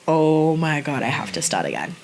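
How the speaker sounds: low, sinking self-reproach; retold deflated groan of words, sinking in pitch; retold dismay. Retold dismay at forgetting a line.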